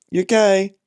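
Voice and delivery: high, loud cooing to the cat; cat owner cooing at her cat; pet voice. Acted. Asking the cat.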